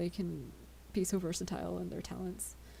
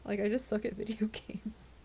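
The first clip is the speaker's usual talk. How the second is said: laughing; 3 semitones higher than usual. Retold or imitated. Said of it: "I was like".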